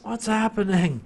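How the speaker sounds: high-pitched mock outrage; retold exasperated yell; mock screaming. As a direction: complain high, imitating a scream. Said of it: "basically screaming in his ear".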